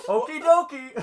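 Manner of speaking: high, loud Minnesotan lilt; hammed-up chirpy Fargo Minnesotan; Minnesotan accent. Shown as a demonstration. Player trying out robot's voice, loud Minnesotan. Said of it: "have a Minnesotan accent".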